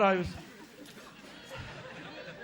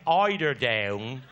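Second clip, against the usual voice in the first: "eider down" dropped much lower and drawn out slowly; low, slow repeat; 7 semitones lower, much slower than usual. Retold or imitated. Mother repeats the words.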